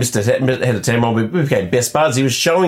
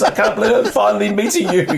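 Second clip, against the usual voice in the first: 1 starstruck fan; 11 semitones higher than usual. Retold or imitated. Gushing fan quoted at trade show.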